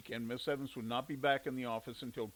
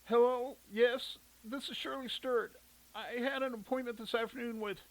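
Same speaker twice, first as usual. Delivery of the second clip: phone voice; 9 semitones higher than usual. A narrator's reading. Sick mother on the phone.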